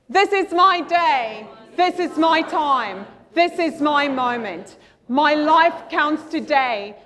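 slow, firm, declaiming every line; group affirmation. Acted. Coach leads the crowd in a firm power-pose affirmation. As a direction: proclaim it like you mean it.

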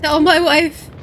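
slow hammed-up dying soldier; wounded soldier gasping. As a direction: play a dramatic last breath, slowly. Hammy dying in game.

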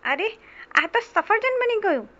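high-pitched surprised mouse; squeaking mouse. Acted. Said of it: "ઉંદરે ચું ચું કર્યું".

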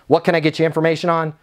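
brusque, rushed phone answer; rude, bothered. Shown as a demonstration. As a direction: answer fast as if the caller is bothering you. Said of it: "that sounds like I'm being rude".

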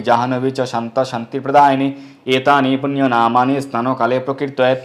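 even, steady Sanskrit litany; verse recitation. Acted. Devotee calling the names of Ganga, steady recitation. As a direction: recite the sacred names in a level chant.

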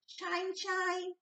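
high, bright singsong; the sun chiming in playfully. A narrator's reading. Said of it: "went the sun".

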